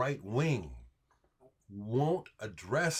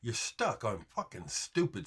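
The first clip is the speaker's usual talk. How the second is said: getting mad; 3 semitones higher than usual. Real, not acted. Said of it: "See, I get mad".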